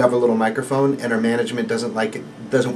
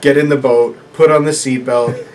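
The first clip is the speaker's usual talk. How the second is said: broken phrasing of a new Italian immigrant; broken English; 4 dB louder than usual. Retold or imitated. Gondolier imitating colleague's character, broken Italian English. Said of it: "broken phrasing".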